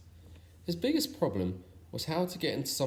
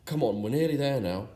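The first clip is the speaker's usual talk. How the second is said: shout; 3 semitones higher, 5 dB louder than usual. Acted. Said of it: "he shouted".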